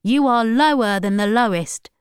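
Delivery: lightly voiced stern accuser; lightly voiced Ryan Tops. A narrator's reading. Preacher condemning granddaughter over the phone, mildly stern. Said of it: "said Ryan Tops".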